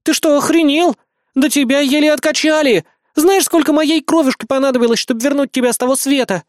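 high, loud indignant scolding. Acted. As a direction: tell him off, outraged. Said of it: "возмутилась Хелен". (высокое громкое возмущённое отчитывание)

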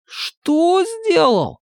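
high, drawn-out mock astonishment; showy amazement. A narrator's reading. Саня растягивает слово в показном изумлении перед новобранцами. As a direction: stretch it in fake amazement.

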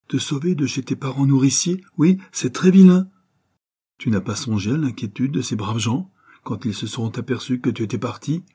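a mother scolding, lightly stern. Acted. Mère gronde son fils fugueur, sévérité légère. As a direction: scold your son but can't hide the love. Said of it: "garder un ton sévère".

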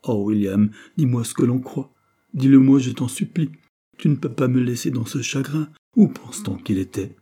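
put-on a girl begging her friend, eyes wet; tearful pleading. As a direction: plead with him, close to tears. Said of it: "tremblant d'émotion, les yeux mouillés de larmes".

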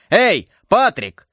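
high, drawn-out call for a servant. Acted. Duke under threat calls his servant, calling out high. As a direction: summon help from the next room, slowly stretched.

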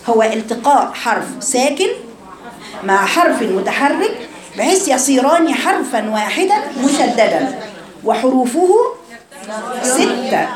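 slow, deliberate recitation; slow dictation. Shown as a demonstration. Teacher repeating the definition slowly for students. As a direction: lay each word down slowly. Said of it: "repeats definition slowly".

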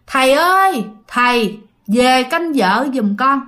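drawn-out call to a revered master. Acted. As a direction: call out respectfully, stretching the words. Chồng gọi vọng ra ngoài. (gọi vọng ra, kéo dài giọng)

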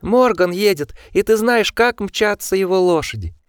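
high, agitated, panicky rant; frantic shrill voice. A narrator's reading. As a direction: rush the danger in alarm. Osmond frantic about Morgan.

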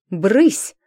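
громкое резкое «Брысь!»; прогнать одним словом; шикнула. Acted. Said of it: "шикнула она". (врач прогоняет гостей, резко и громко)

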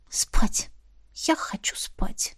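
breathy exhausted whisper, barely voiced; sleepy whisper. Worn-out Dana begs her friend to let her sleep, whispering. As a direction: whisper it, too tired to speak aloud.

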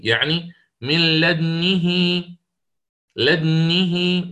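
very slow chanted لدنه with lips rounded together with the stilled dal; slow melodic tajweed of لدنه with ishmam in parallel; Quran recitation demo. Shown as a demonstration. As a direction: intone لدنه slowly, rounding the lips at the same moment as the dal. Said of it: "وهناك من يقرأ كما قلت بالتوازي".

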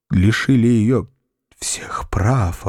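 horrified whisper. Acted. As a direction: breathe it out in shock. Milo panics over their deed.

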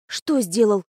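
ordinary delivery

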